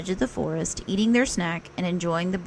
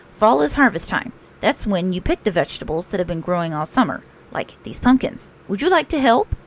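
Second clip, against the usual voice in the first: a brisk, busy rabbit explaining. Acted. Rabbit teaching Pooh about fall, lightly raised voice.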